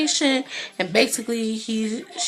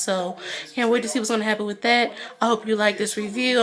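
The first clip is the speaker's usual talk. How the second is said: stuffy blocked nose; congested. Real, not acted. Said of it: "I'm a little congested".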